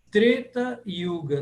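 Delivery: Treta with a closed E; closed 'ay' sound in Treta. Shown as a demonstration. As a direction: slowly model Treta Yuga, E kept closed. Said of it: "sempre fechado".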